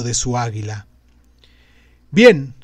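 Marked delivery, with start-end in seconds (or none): 2.1-2.5 loud exclamation upward; exclaiming. Acted. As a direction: call out to the sky. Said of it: "exclamó mirando hacia arriba".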